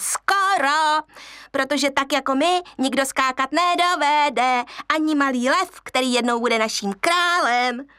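high teasing monkey voice; boastful monkeys. Acted. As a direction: brag down at the cub.

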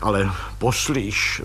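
desperate. Acted. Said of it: "zvolal plukovník zoufale".

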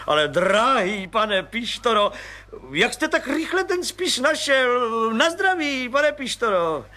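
lavish praise on the little man; gushing, overjoyed colonel. Acted. Colonel toasts.

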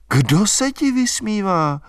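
high, tender reproach; fond chiding. A narrator's reading. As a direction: tease the silly boy lovingly. Albína scolding fondly, rising.

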